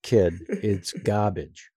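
slow "garbage" said without an R; Walter Matthau correcting. Retold or imitated. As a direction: drop the R in "garbage", slowly. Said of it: "he heard the impression and corrected".

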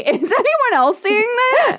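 high, slowed, stunned voice; mock disbelief. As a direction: pretend you can't believe your eyes. Mocking Mark's disbelief.

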